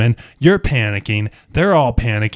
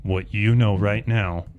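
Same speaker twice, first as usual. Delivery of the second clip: quiet threat; 5 semitones lower, 6 dB quieter than usual. Acted. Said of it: "The individual says".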